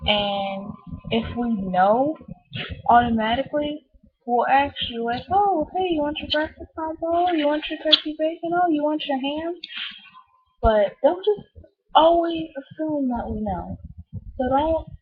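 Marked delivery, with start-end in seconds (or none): 5.3-9.5 high, bright friendly greeting; cheerful worker voice. Retold or imitated.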